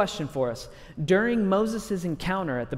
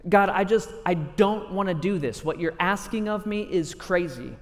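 mock desperate outcry; 2 semitones higher than usual. Moses begging God to send someone else, retold as a desperate plea. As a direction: beg to be let off, in acted desperation. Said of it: "In desperation, Moses shouts out".

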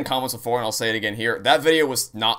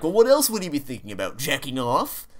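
raised mocking impression; 4 semitones higher than usual. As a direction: poke fun with a higher voice. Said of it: "even the voice you're making right now".

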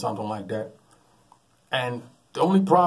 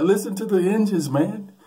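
higher, louder alarmed rant; alarmed complaint; 9 semitones higher, 6 dB louder than usual. Retold or imitated. Nephew to his buddy about the weak engines, alarmed and higher. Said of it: "He said".

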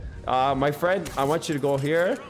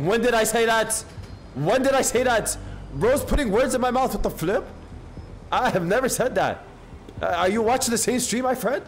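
indignant denial; 7 semitones higher than usual. Real, not acted. Streamer protesting to chat that misquoted him, indignant. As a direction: shout down the accusation. Denying chat's accusation.

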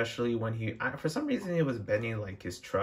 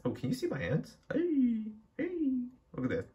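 excited; 13 semitones higher than usual. Real, not acted. Showing his hands to viewers.

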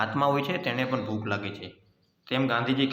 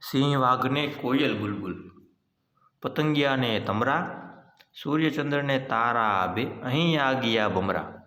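slow, measured reading of verse; poem recitation. Acted. Teacher reciting a poem to young pupils, slow poem recitation. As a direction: recite it unhurriedly, drawing out the line ends.

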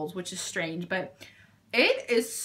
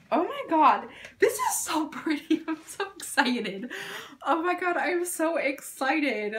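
high-pitched giddy gushing with a laugh; excited; 5 semitones higher than usual. Real, not acted. Admiring the newly opened highlighter, giddily excited. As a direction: gush in awe, pitch up.

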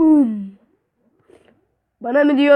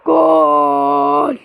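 loud goal cry; goal shout; 6 dB louder than usual. Real, not acted. Gamer scoring, loud goal cry. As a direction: call the goal out big.

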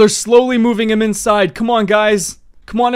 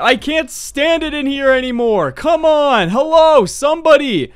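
imitating screaming prisoners; 4 semitones higher than usual. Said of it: "all I hear is people screaming".

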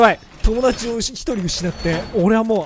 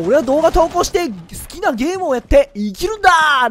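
youthful declaration; 7 semitones higher, 4 dB louder than usual. Retold or imitated. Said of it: "なんて感じたらね".

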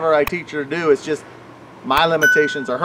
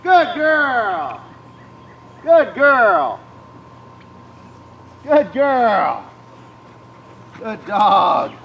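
high, squeaky dog praise; squeaky praising a dog; 6 semitones higher, 3 dB louder, much slower than usual. Real, not acted. Praising dog after retrieve.

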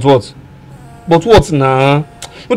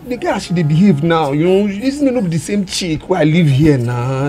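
put-on Nigerian accent; 2 semitones higher than usual. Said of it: "You spoke purely in the Nigerian accent".

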